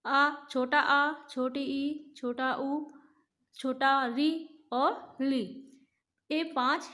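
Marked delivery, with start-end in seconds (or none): 0.0-5.4 आ said slowly and set apart; teacher listing hrasva vowels; short vowels recited. Shown as a demonstration. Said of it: "ये हिरस्व स्वर हैं".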